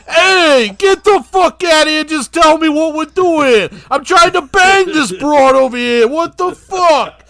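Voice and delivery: lightly voiced Dice Clay. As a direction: shoo him off like an annoyed comic.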